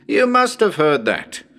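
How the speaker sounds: you must have heard that said high and loud; called out. Acted. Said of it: "Well, you must have heard that".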